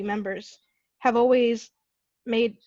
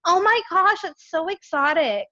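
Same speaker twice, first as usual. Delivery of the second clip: high, louder gushing mock admiration; gushing stranger; 7 semitones higher, 4 dB louder than usual. Mocking the woman who called her exotic, gushing high. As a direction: ham up the naive gushing woman. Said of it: "She goes".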